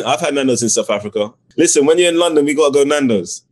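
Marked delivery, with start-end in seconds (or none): 1.6-3.4 higher and louder, eager and playful; excited invitation. Real, not acted. Guest eagerly inviting the host to Nando's in London, excited. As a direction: rope him into the plan with a grin.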